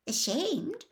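blankly. Acted. Hermione is baffled by Winky's shame, blank. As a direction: echo it back softly, not understanding. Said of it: "said Hermione blankly".

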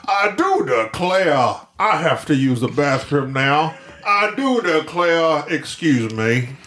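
mock-genteel Georgian drawl; hammed-up Southern Georgian gentility; Georgian accent. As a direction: announce it with slow Georgian politeness. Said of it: "every sentence we start with has to start".

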